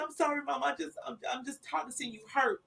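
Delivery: very soft retold confession; hushed, sorry recounting; subdued apology. Retells tearful son apologizing to her.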